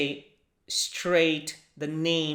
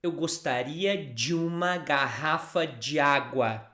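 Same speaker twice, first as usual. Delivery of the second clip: faster. Shown as a demonstration. Teacher showing fast natural speech. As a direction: run "Eu gostaria de uma garrafa de água" together, "de água" as "dji água". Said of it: "when I say it faster".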